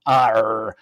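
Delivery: pirate voice. Pretend. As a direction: bellow it like a pirate. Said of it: "He did it in pirate voice".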